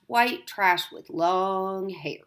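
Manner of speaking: slow whispered insult; sneering whisper. Acted. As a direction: hiss the insult slowly. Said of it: "Bob asked".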